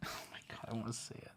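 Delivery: very soft, voiceless words lost in laughter; breaking into laughter. Real, not acted. Storyteller cracking up at the line, helplessly laughing. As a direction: choke it out under your laughter.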